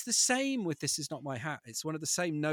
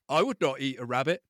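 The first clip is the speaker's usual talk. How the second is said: a louder, put-on bear voice; bear's flat denial; 7 dB louder than usual. Father reading the bear's line to his kids, put-on voice. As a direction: deny it with a straight face, bear-style.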